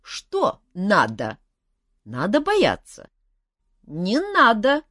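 high, slow, odd-voiced dragon lady; a friendly dragon eager for guests; curious dragon. Dragon talks with Elmar.

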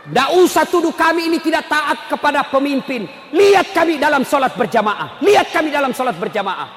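impassioned preaching. Real, not acted. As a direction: preach it forcefully to the congregation. Preaches at full force.

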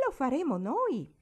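loud, high and determined; resolute. A narrator's reading. Barbara insists on crossing the oat field, resolute. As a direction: declare it firmly, no arguing. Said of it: "fece risolutamente Barbara".

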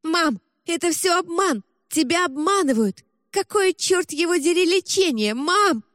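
high, strained shouting; desperate outcry. Acted. Girl screams at deceived mother.

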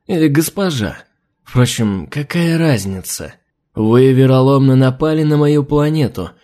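sneering lizard, drawn-out; mocking reptile envoy; lizard man. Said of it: "Голос рептилии звучал подчёркнуто издевательски".

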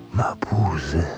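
half-whispered name, breathed out; whispered realisation. Acted. Prosecutor recognising the villain, whispered realisation.

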